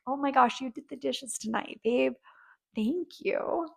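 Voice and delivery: a tender little thank you; playful thanks. Shown as a demonstration. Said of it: "in a playful, fun, young energy".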